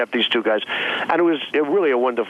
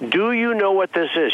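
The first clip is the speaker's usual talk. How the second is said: mock patient explaining to a beginner, higher pitch; 6 semitones higher than usual. Retelling lesson for Miss Universe.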